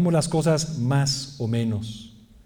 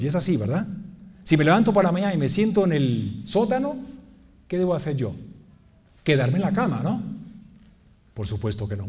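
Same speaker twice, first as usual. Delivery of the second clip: ordinary talk, nothing marked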